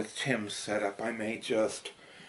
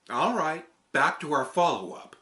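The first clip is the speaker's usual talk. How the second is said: raised, louder character voice; loud, higher puppet-character delivery; character read; 4 semitones higher, 11 dB louder than usual. Acted. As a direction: perform the script line in a bright character voice. Retake of the character script.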